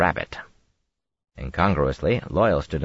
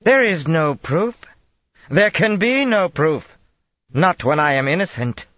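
cling to innocence, rising; shrill protest; 12 semitones higher, 5 dB louder than usual. A narrator's reading. Accused woman defending herself to the Dragon, high indignant protest. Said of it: "Colbert demanded".

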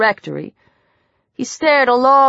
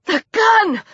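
sudden realization; 10 semitones higher than usual. Acted. Sarah's sudden realization in danger.

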